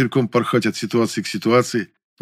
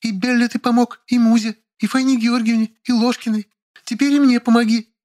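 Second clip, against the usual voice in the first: high, accusing woman's voice; accusing Lilya; 14 semitones higher than usual. A narrator's reading. Lilya accusing the narrator, high and reproachful. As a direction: list them off like charges, pitched high. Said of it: "продолжила обличительным тоном".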